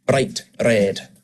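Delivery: "Bright red" with each R flicked just once; tapped Scottish R. Shown as a demonstration. Voice coach showing students the tapped R, Scottish tapped R in "Bright red". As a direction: tap the R lightly in "Bright red". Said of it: "It's called a tapped R".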